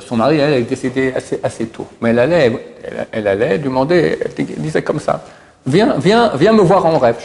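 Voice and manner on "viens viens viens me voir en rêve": high, pleading call to the dead husband. Acted. Rahma calling her late husband to visit her dreams, high pleading call. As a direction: call him to come to you in a dream.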